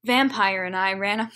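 low, measured reading voice; story reading. A narrator's reading. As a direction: read the fanfic out deadpan. Reads fan fiction aloud.

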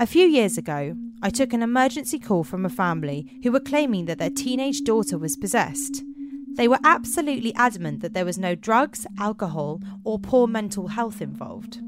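animated, carefully phrased read-aloud voice; story narration. A narrator's reading. Officer recounting an emergency call, in story narration. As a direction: tell it like an eerie tale.

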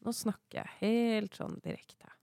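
relaxed, direct chest voice. Shown as a demonstration. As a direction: settle from a sigh into direct speech. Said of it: "få stemmen ned i brystet".

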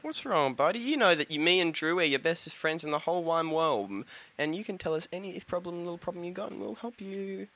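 soft, coaxing friend's voice; mock tender comfort. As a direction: talk him gently into opening up. Soothing a friend, softer.

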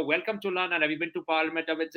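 put-on comic British accent; mock British welcome to London. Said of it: "I've been working on my British accent".

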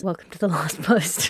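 a light imitation of a plummy British announcer; mock a posh British voiceover intro; plummy British accent. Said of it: "That plummy British accent".

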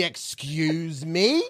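slow, offended excuse me. Retold or imitated. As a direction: drag it out, scandalised. Acted reply to caller.

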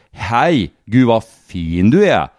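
slow, lightly voiced Värmland accent; a mild Värmland drawl, flirting; Värmland pickup line. A Värmland man flirting at the bar, mild Värmland accent. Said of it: "hur det låter när två värmlänningar".

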